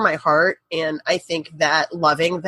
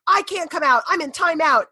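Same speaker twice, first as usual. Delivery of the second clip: imitated exasperated mom; 8 semitones higher than usual. Retold shouting match through locked door.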